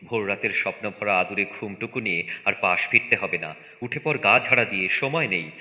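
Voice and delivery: brisk, insistent orders with punched imperatives; hurried, emphatic urging; urgent rousing. Acted. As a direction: hustle a sleepy household out the door. Father rousing family to flee.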